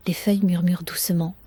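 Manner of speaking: breathy whisper, no voice. Acted. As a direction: whisper it like a secret. Whispered line in sleep meditation.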